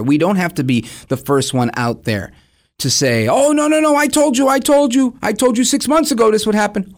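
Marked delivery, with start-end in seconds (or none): 3.3-6.9 smug know-it-all. Retold or imitated.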